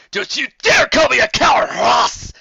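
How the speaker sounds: loud, high bristling retort; angry retort. A narrator's reading. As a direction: snap back at the insult. Commander angered by insult.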